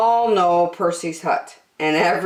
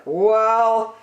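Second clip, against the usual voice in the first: cautious Percy; 5 semitones higher than usual. Acted. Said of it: "he said".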